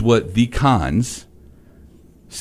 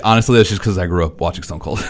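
fast, raised excited talk; 3 semitones lower, faster than usual. Real, not acted. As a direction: fan excitedly explaining his pick. Excited wrestling fan talk.

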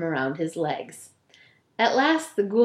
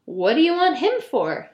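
ghoul voice; 6 semitones higher than usual. Acted. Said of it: "he said".

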